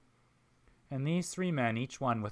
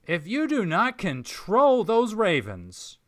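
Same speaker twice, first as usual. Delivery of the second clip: loud, higher Southern threat; angry threat; 8 semitones higher, 10 dB louder than usual. Acted. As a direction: swear it through clenched anger. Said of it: "the man in white frowns".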